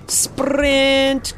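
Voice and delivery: high, loud cry of sprint; shouted command. Real, not acted. Gamer yells at his character to run, loud. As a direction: bark it out urgently.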